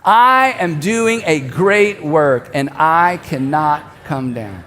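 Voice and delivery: very slow, measured chant-like speech, dropping at the end; leading a group recitation. Real, not acted. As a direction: pace it for a congregation to join in. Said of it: "say this out loud together".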